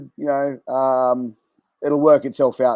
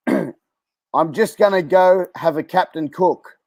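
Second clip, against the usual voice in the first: slow quiz reading; 3 semitones higher, slower than usual. Shown as a demonstration.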